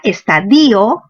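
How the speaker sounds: estadio drawn out as es-ta-DI-o; stress on I. Shown as a demonstration. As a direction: lean slowly on the i of estadio. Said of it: "con tilde en la i".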